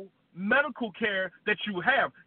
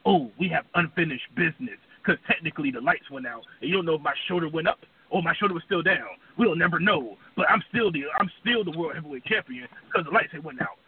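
Joker J and Michael Cole voice; 6 semitones lower than usual. Retold or imitated. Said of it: "This is vintage Joker J and Michael Cole voice".

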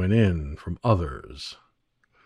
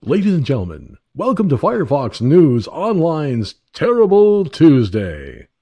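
announcer voice; 4 semitones higher, 6 dB louder than usual. Shown as a demonstration. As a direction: announce the show title grandly. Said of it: "let me do that again".

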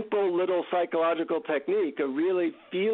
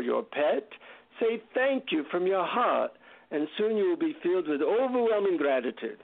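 put-on deep Indian accent; 2 semitones higher than usual. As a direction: teach gratitude in an Indian guru's accent. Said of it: "deep Indian accent".

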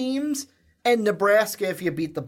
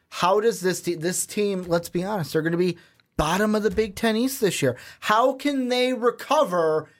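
tongue-in-cheek doomsaying, pitched up then dropping; mock sarcastic. Host baiting co-host about losing Saquon Barkley, huge sarcasm. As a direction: pose a loaded question in mock despair. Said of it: "That is huge sarcasm".

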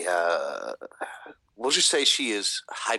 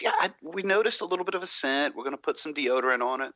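groomer voice; 7 semitones higher than usual. Retold or imitated. Quoting groomer.

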